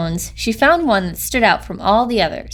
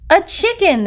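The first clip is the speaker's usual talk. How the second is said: high, louder group cry of delight; excited shout; 9 semitones higher, 3 dB louder than usual. A narrator's reading. Frogs shouting at the hatchling, high and excited. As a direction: cry it out in amazement. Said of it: "they all shouted".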